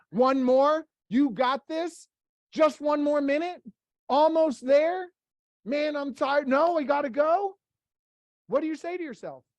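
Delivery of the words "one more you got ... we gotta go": louder, higher self-hype; gym pep talk. Retold or imitated. Gym-goer hyping themselves up mid-workout, pumped up. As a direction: pump yourself up for one more rep. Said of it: "what do you talk to yourself".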